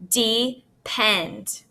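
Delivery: "Depend" split into two separate beats; syllable by syllable. Shown as a demonstration. Teacher showing pupils the syllable break, syllable by syllable. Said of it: "investigating each individual syllable break".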